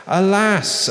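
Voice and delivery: high, loud mournful cry; crying out in lament. A narrator's reading. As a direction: wail it upward in grief over the fallen city. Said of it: "crying out".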